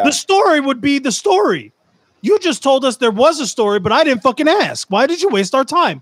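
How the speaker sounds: indignant, high-pitched telling-off; mock outrage. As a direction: rant at a time-waster in comic indignation. Berating a poster over missing story.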